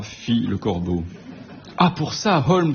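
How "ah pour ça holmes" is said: un Watson stupéfait, voix plus haute; s'étonner vivement, plus aigu; Watson stupéfié. Acted. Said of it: "fis-je, stupéfié". (Watson stupéfait devant Holmes, plus aigu)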